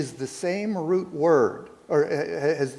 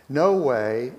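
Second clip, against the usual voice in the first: emphatic refusal; 4 dB louder than usual. Shown as a demonstration. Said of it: "emphatically no".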